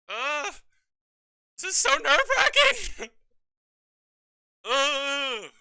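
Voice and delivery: tense, high yelp of nerves; real jitters before the result; nervous groan. Real, not acted. Nerve-wracking final turn.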